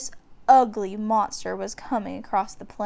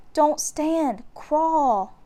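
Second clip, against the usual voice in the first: higher, louder urgent order to his sister; urgent command; 6 semitones higher, 4 dB louder, much slower than usual. A narrator's reading. Jack urging Annie to crawl, urgent and raised. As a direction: snap out the order, a touch raised. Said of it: "said Jack".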